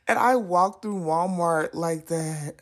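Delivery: slow, strained half-crying telling; mortified. Real, not acted. Telling viewers she walked through Walmart, slow and mortified. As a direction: drag it out, wincing at the memory.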